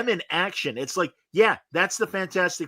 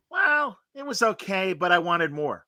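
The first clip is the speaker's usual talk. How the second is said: imitating friend; 3 semitones higher, slower than usual. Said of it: "his stock answer about something was".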